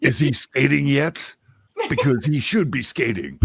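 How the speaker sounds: hammed-up Southern inquiry; Southern man parody. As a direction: press the question like a Southern patriarch. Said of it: "would really kind of talk like that".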